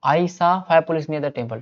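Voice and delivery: very slow, each word spaced out; slow dictation. Shown as a demonstration. Teacher slowly repeats the example for students. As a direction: spell it out for the class. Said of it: "teacher repeats example slowly".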